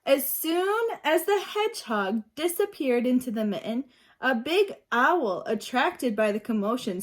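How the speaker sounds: put-on reading aloud to young children, lively; storybook reading. A narrator's reading. Teacher reading a picture book to her class, lively. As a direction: bring the story alive for the class.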